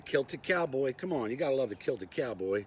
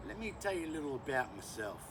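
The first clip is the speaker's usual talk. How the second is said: fake Australian accent; 4 dB quieter than usual. Bushman introducing himself to YouTube, fake Australian accent. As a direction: put on a bad Australian accent. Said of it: "with my fake Australian accent".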